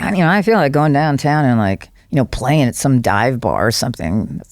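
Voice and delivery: lightly voiced singer impression, laid-back; a hint of a singer, easy and offhand; a singer impression. The speaker imitating a singer for the podcast hosts, barely changed voice. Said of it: "That's a good singer impression".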